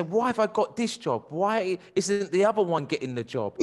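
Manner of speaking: high, mock-whiny kid voice; whiny daughter complaint. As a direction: play the aggrieved child. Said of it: "they say".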